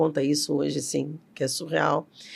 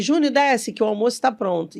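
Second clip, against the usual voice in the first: calling upstairs; 5 semitones higher, 3 dB louder than usual. Retold or imitated. Mother calls son downstairs.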